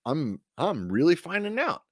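mock panicked thought. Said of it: "I'm like".

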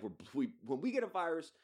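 put-on not-quite South African accent; put-on foreign accent. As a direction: mimic a man in a badly faked South African accent. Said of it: "I don't know why I'm doing that accent".

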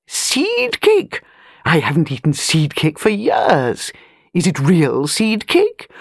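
put-on an old lady of rank, talking down a little; airy grande dame, lightly done; lightly voiced imperious old lady.

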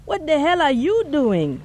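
high indignant demand in a man's voice; voiced man demanding angrily. A narrator's reading. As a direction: throw her question back at her, stung. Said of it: "the man demanded".

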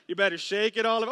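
fast shouted dance call; hyped dance instruction. Acted. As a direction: call it out like a party DJ.

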